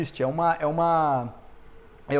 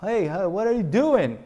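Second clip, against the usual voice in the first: friend greeting; 4 semitones higher, slower than usual. Retold or imitated. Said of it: "De falar assim".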